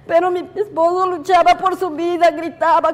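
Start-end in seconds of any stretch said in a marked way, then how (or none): none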